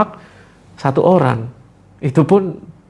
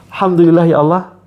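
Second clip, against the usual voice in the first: said with a smile; smiling prayer; 3 semitones higher, 3 dB louder than usual. Shown as a demonstration. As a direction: smile as you pray it. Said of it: "Sambil senyum ya". (sambil tersenyum)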